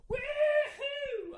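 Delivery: redneck whoop. Retold or imitated. Dumb guy whooping in public.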